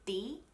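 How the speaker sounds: D made with the pointed tongue tip; crisp, hard D off the ridge. Shown as a demonstration. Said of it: "a hard D sound".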